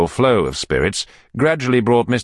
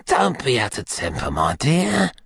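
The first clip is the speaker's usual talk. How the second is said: put-on meek, wheedling old man, lifting high at the end; submissive urging; 5 semitones higher than usual. A narrator's reading. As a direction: soothe an angry bully submissively. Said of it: "urged Fagin submissively".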